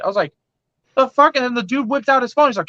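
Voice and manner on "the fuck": incredulous. Retold or imitated. Reacting to the doctor.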